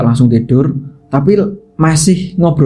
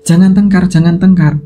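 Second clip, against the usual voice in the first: calling out; 5 semitones higher than usual. Retold or imitated. Villagers calling through the door.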